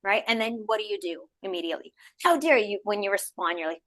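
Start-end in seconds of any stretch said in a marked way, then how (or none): 2.2-2.8 high, indignant how dare you; mock outrage. Scene: replying to a rude social media post, mock outrage. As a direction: play it huffy and offended.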